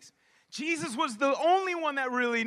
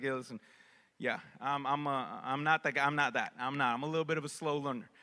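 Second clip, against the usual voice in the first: much lower, sheepish confession; lower, bashful self-mockery; 9 semitones lower than usual. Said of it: "I was like".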